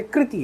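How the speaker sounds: कृति as "kriti"; correct pronunciation. Shown as a demonstration. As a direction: say कृति with "ri" after the k. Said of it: "री बोला जाता है इसको".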